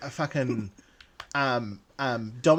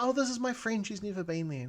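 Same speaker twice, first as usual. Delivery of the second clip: gushing lady; 7 semitones higher, 6 dB quieter than usual. Retold or imitated. Lady voiced in story.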